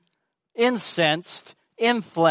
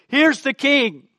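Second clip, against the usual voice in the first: slow, higher, louder proclamation; proclaiming the king; 8 semitones higher, 6 dB louder, slower than usual. Retold or imitated. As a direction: announce him as king, solemnly. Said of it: "she's saying".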